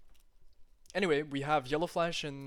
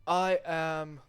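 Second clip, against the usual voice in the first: mock self-pity. Real, not acted. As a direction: drag it out, mocking yourself. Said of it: "I'm a fucking donut".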